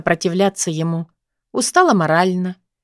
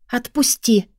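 through gritted teeth; 4 semitones higher, slower than usual. A narrator's reading. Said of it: "процедила сквозь зубы".

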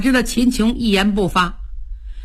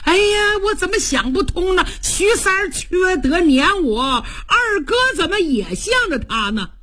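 forlorn lament. Acted. Homeless Cheng laments to horse.

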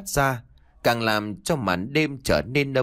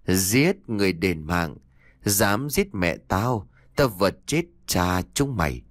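put-on chilling ghost child; 4 semitones lower than usual. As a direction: menace it like a vengeful spirit. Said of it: "vang lên giọng nói rợn người của con bé".

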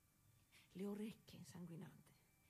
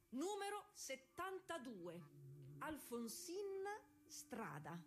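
higher, slow roll-call announcement; imitating the starter reading her name wrong; official's roll call; 4 semitones higher, slower than usual. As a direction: call the number out like a race official.

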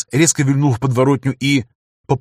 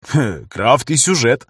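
ухмыляясь; slower than usual. Acted. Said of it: "ухмыляясь".

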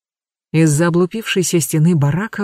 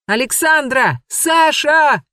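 shouting a name across the yard; calling out; 10 semitones higher, slower than usual. A narrator's reading. Макар calls for the missing girl, shouting. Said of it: "крикнул Макар".

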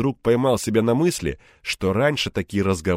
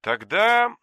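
hesitant; 13 semitones higher, 3 dB louder than usual. A narrator's reading. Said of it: "замялся риэлтор".

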